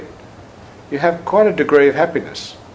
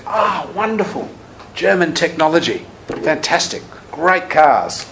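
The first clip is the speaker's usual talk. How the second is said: mock enthusiasm; 5 semitones higher, slower than usual. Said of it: "Geshe Loden said".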